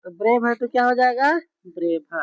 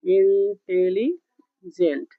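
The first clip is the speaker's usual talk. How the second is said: slow dictation; 3 semitones lower, much slower than usual. Shown as a demonstration. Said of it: "अगर intelligent लिखा हुआ है".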